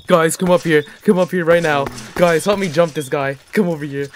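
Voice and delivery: calling out to friends; yelling across the room. Real, not acted. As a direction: shout for the team to come. Calling teammates from a distance.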